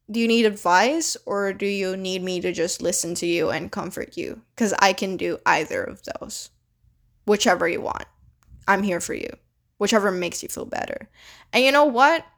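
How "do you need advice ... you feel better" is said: gentle, softer offer of help; soft, patient reassurance; nicer. Shown as a demonstration. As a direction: ease in kindly, like comforting a friend. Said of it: "be nicer".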